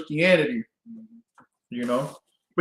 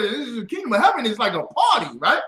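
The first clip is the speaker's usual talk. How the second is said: words bubbling with real laughter; laughing while talking; 3 semitones higher than usual. Real, not acted. Laughing as he explains the parable to her.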